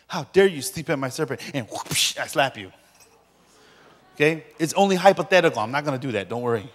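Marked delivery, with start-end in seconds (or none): 0.1-1.4 a touch of hammed-up outrage; mock angry outburst. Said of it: "I get angry and I go". 1.7-2.2 airy mouth-made whoosh of a swing; imitated slap whoosh. Acts out a slap.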